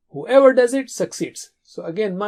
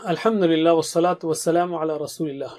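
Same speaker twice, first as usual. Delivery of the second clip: opening prayer recitation; 3 semitones lower, faster than usual. Real, not acted. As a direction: open the lesson with a devout prayer. Opening dua before lesson.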